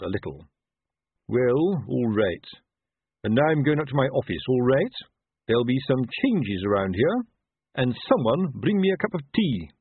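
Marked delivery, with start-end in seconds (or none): 1.3-9.7 lightly blustering officer voice; pompous captain, huffy. Acted. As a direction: give orders with ruffled dignity.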